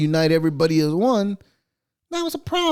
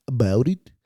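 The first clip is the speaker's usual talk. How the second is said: Canadian accent; 5 semitones lower than usual. Shown as a demonstration. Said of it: "I sounded very Canadian".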